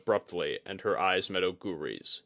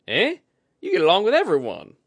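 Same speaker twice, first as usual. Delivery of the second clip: high, bright-edged woman's voice, much higher; Kudaka voice; 11 semitones higher, 11 dB louder, faster than usual. A narrator's reading.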